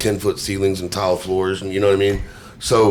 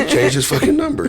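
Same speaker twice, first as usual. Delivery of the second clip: shrill panic, much higher; panicked high voice. Pretend. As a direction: squeal it in mock panic. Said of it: "I'm gonna be like".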